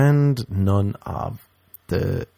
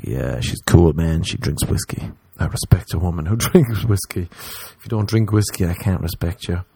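much lower, lazy bro voice; dudebro; 3 semitones lower than usual. Retold or imitated. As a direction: drop into a deep dude voice. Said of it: "the guy's like".

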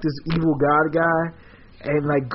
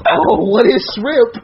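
high, loud, drawn-out wonder; acted amazement, pitched up and stretched out; awed curiosity; 6 semitones higher, 5 dB louder, slower than usual. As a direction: marvel slowly at a brand-new food. Characters marvel at new food.

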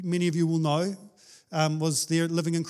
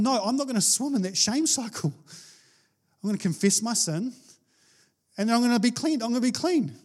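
resolute declaration; 5 semitones higher than usual. Retold or imitated. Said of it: "actually just going".

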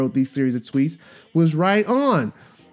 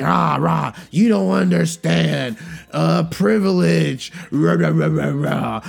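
mocking rant. Mocking the women's replies.

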